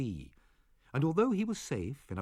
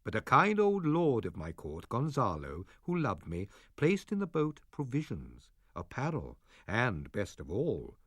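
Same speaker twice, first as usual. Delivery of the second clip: put-on calm old father. Prospero telling Miranda their past: grave, gentle father. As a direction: tell the old tale gently to your daughter. Prospero tells his story.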